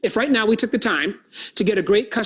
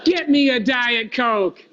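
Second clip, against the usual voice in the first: slow, higher, relishing the words; slow savored repeat; 4 semitones higher, slower than usual. Shown as a demonstration. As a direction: savor "Get me a Diet Coke". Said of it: "turn and say to your boss these words".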